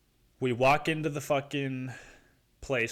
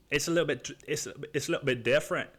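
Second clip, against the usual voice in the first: slightly higher, stumbling attempt at a British accent; bad British accent; 3 semitones higher, faster than usual. Buddy explains the accent difference, poorly imitated British accent. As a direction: mimic the buddy's accent and fumble it. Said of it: "he was telling me the whole time".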